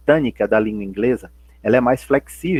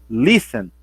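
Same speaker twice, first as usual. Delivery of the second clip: "listen" with the first syllable "lis" stressed, falling after; 3 semitones lower than usual. Shown as a demonstration. Teacher testing the word with students, "listen" stressed at the start. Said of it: "o som mais forte é o início da palavra".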